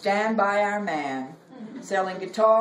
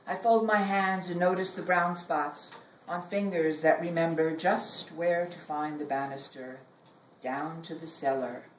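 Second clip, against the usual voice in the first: poem reading; 2 semitones lower than usual. Acted. Poet reading her own poem to an audience, measured.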